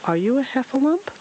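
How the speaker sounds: high squeaky questioning voice; squeaky little creature, very high; Piglet. A narrator's reading. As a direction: squeak the question, rising sharply at the end. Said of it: "the squeaky voice said".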